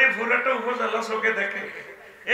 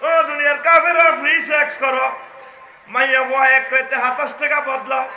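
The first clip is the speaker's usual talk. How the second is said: loud proclamation; 4 semitones higher, 5 dB louder than usual. Retold or imitated. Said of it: "আমার নবীজি কয়".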